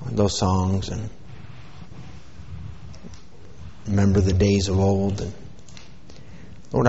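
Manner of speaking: soft, steady prayer to the Lord. Acted. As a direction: lead the congregation in prayer. Leads a prayer.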